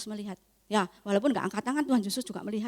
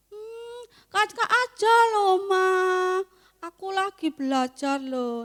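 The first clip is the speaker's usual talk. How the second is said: put-on whiny child excuse; 8 semitones higher than usual.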